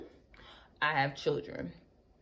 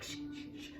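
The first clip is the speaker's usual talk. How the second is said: unvoiced shushing; hushing; 16 dB quieter than usual. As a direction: hush the kids fast. Hushing kids in line.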